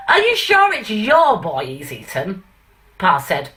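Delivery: light, self-admittedly bad northern English accent reciting; a mild northern accent, Stanley Holloway monologue style; self-mocking northern accent. Reciting the Lion and Albert to the audience in a light northern accent. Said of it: "I'm gonna do my worst northern accent ever".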